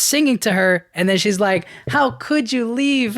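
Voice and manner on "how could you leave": slow, much higher, wounded question; hurt plea. Retold or imitated. Daughter confronting the father who left, slow and hurt. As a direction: ask it like a daughter let down.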